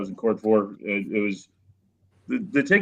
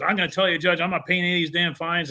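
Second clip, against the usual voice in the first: mock angry trucker; 6 semitones higher than usual. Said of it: "And he was all mad".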